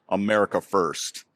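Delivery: flat deadpan American accent, lightly imitated. The sausage vendor greeting the American in a deadpan American accent. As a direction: say it like a French vendor faking a perfect American accent. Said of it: "in a perfect American accent goes".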